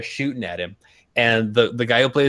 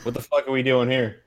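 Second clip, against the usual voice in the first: Burt Reynolds. Retold or imitated. Imagining the veteran actor stuck on a remake set, grumbling impression. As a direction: mutter like a fed-up veteran star. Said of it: "Burt Reynolds probably spent ... being like".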